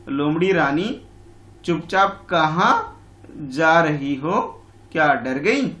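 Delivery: slow, teasing fly voice; mocking fly. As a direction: stretch it out to tease the fox. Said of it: "ऐसे बोल रही है हमारी मक्खी".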